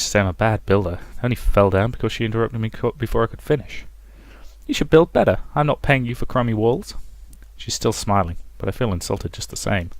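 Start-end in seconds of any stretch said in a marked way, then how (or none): 4.7-6.9 lightly voiced scolding old lady; a hint of a haughty old dame; old woman voice. Elf scolds the builder.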